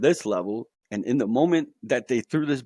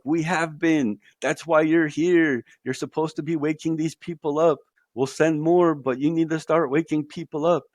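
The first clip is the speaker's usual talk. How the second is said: higher, emphatic comeback in a retold exchange; insistent retort; 5 semitones higher, 3 dB louder than usual. Entities answering his plea for help, insistent. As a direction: voice the entities pushing back, pitched up.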